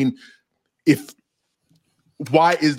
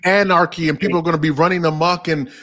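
lightly acted worried protest, pitched up; mock alarmed objector; 4 semitones higher than usual. Host playing police defender challenging Dylan, mock alarm. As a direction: plead as a devil's advocate, a touch high.

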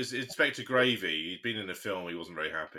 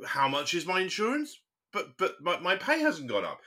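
higher-pitched mock customer complaint; retold baffled caller; 6 semitones higher than usual. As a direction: imitate an indignant caller stammering a protest. Imitating complaining phone callers.

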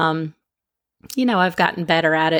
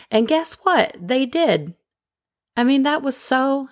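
excited; 7 semitones higher than usual. Real, not acted. Delighted review was fixed.

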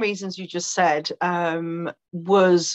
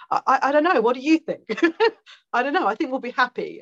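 higher, hesitant husband voice; imitating a clueless husband, lightly higher; unsure husband; 5 semitones higher, faster than usual. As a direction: play the stumped husband, a bit higher. Husband unsure what to answer.

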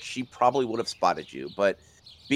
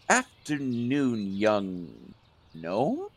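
weak smile; much slower than usual. Acted. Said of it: "a weak smile, and she goes".

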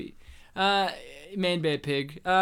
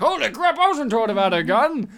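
mock surprise; 3 semitones higher, 7 dB louder than usual. Sean surprised by gun.

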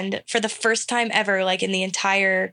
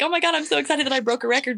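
mock excitement; 5 semitones higher, faster than usual. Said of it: "where you're like".

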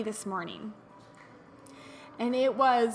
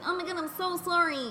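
high-pitched, put-on commiseration; mock sympathy; 6 semitones higher than usual. Host parodies pitying a friend's swollen knee, mock sympathy. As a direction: gush with exaggerated pity. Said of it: "being so negative".

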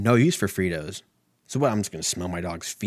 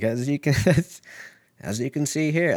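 put-on higher old-timey presenter voice, lightly done; forties guy voice; 6 semitones higher, 4 dB louder than usual. Imagining a breeder showing off a dog, 1940s presenter voice. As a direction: play a 1940s newsreel presenter. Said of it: "my voices are always like a guy from the forties".

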